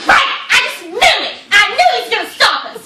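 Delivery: loud, high panicked outburst; mock panic. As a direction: imitate a friend freaking out at the police. Imitating friend seeing police lights.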